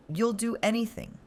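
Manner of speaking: high sneering echo; mocking venom. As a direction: throw her words back, mocking. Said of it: "They were mockery, simmering with just enough venom".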